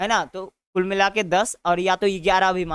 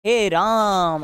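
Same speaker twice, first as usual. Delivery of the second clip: calling from afar; much slower than usual. Shown as a demonstration. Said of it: "तो कहते हैं".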